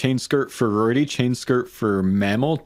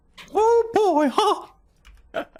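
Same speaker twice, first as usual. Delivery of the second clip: very high-pitched little cartoon mouse voice. Doing a voice on the spot when asked, Mickey Mouse voice. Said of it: "you do a pretty good Mickey Mouse".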